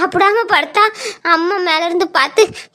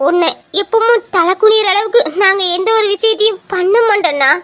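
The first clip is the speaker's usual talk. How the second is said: pleading through tears. Acted. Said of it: "ஏன்டா அழுற?".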